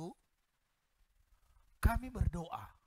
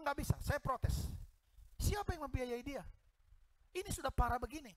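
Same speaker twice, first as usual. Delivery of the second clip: protesting; 8 semitones higher than usual. Retold or imitated. Woman protests to pastor. (protes dengan nada tinggi dan lambat)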